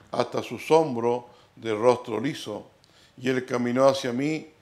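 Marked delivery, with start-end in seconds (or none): none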